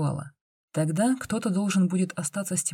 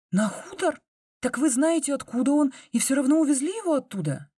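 put-on higher, outraged girl's questions; indignant; 10 semitones higher than usual. A narrator's reading. The girl, outraged they took the wolf cub from the farm, protests. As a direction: demand answers, shocked and angry. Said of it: "возмутилась девочка".

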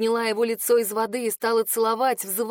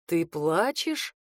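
slow lower male voice in disbelief; disbelieving man; 5 semitones lower, much slower than usual. Acted. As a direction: lower and slow, unable to believe it. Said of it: "как будто не верил он".

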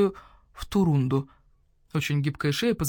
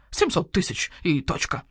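owl shopkeeper voice; 2 semitones lower than usual. Acted. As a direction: voice the grumpy owl merchant. Owl refuses.

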